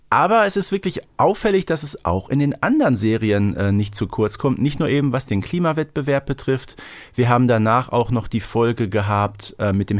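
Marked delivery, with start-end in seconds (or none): none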